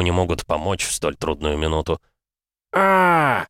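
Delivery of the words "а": a sudden high cry of pain, louder; a scream torn from the chest; agonized scream. A narrator's reading. Wounded warrior screams in pain on the battlefield. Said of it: "Крик вырвался из груди".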